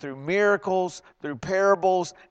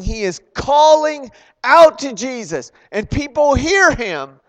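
usual speaking voice

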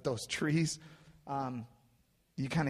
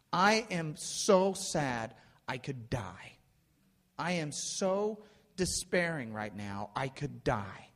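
slow, measured despair, acted out; a preacher's slow rendering of grief; deeply sorrowful; slower than usual. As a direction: weigh each phrase with sorrow. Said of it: "he's deeply sorrowful".

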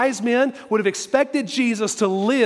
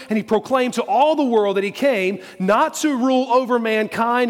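raised, insistent pulpit delivery; impassioned preaching; 3 semitones higher than usual. Real, not acted. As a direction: drive the point home with conviction.

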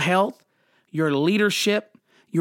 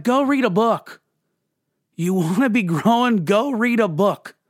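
higher, louder, a lightly voiced God; God's blunt reply; 4 semitones higher, 3 dB louder than usual. God answering whining believers, mock higher and louder. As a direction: toss it back like an unimpressed God.

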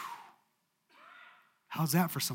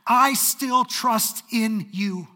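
fervent declaration; 7 semitones higher, 8 dB louder than usual. Acted. A believer declaring trust in God through pain, fervent and loud. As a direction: proclaim it with full conviction. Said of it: "They said".

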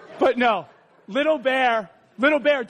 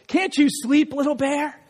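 higher, gentle storybook questioning; lightly voiced parent bear; Big Bear; 4 semitones higher than usual. A narrator's reading. Big Bear checking on his sleepless cub, gently asking. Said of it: "Big Bear comes over to Little Bear and he says".

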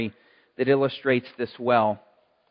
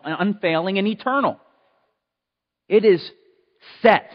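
louder, higher preaching, slowing on key words; 6 semitones higher, 7 dB louder than usual. Acted. Pastor to the congregation about God's love, preaching loud and high.

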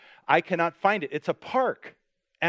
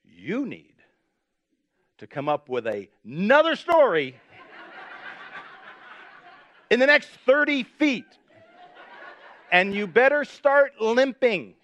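laughing, higher and louder toward the end; joking warning, building to a laugh; laughing advice; 5 semitones higher, 4 dB louder than usual. Retold or imitated. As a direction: tease the groom through laughter. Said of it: "And I said".

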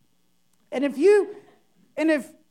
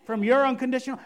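louder, slow, hammed-up grand prayer voice; pompous mock prayer; 4 semitones higher, 6 dB louder than usual. Pastor parodying a showy spiritual prayer, grandly hammed up. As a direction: overblown old-English prayer, milking every pause. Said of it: "Nobody talks like that".

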